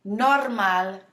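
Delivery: "Normal" with a rolled R before the m. Shown as a demonstration. Teacher modelling for repeat after me, rolled R in "Normal". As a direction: roll the R in the middle of "Normal". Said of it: "You hear me rolling my R's?".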